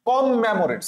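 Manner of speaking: "কমেমোরেট" as kom-memoret with doubled M; spelling pronunciation. Shown as a demonstration. Teacher asks student to notice, "কমেমোরেট" with doubled M. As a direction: lean on both Ms in "কমেমোরেট". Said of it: "খেয়াল করো, কি বলছি?".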